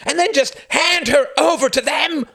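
high, loud, full-force accusation; furious scream. A narrator's reading. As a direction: scream it in outrage. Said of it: "screamed Klaus".

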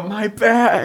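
high mock "my back" wail; hammed-up cry of pain. Mimicking the hurt kid.

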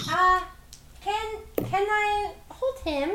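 small goblin voice, pleading softly; eager goblin. Acted. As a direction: goblin reaching out, hopeful. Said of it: "Jingle Jangle says".

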